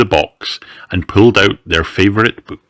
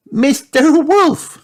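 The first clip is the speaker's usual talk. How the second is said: high, loud, drawn-out exclamation; astonished; 5 dB louder, slower than usual. Acted. Peppa finds Mister Wolf at Granny's door, astonished. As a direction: stretch the name out in childlike surprise. Shocked to find the wolf there.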